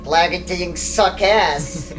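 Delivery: put-on slow, drawn-out grumpy old grouch; curmudgeon voice. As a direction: grumble it like a sour old man. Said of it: "And Gary's like".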